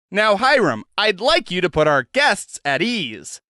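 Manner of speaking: a hint of a cheerful showman; Zed's voice. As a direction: coax the prisoner along brightly. Zed addresses the head.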